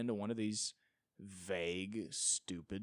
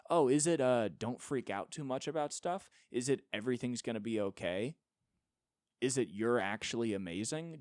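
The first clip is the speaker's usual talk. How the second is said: sarcastic mockery; 2 semitones higher, 5 dB louder than usual. Real, not acted. Sarcastic guesses at his worldview.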